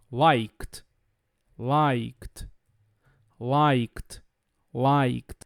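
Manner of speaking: low LIKED, one syllable ending in KT. Shown as a demonstration. Teacher modelling LIKED in low voice with a T ending. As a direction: add a voiceless T after the K in LIKED. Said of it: "como se eu colocasse um T ali".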